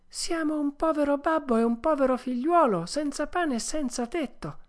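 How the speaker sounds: high puppet voice; pleading puppet. Acted. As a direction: appeal humbly for shelter. Puppet begs shelter at a door. (burattino supplichevole, voce acuta)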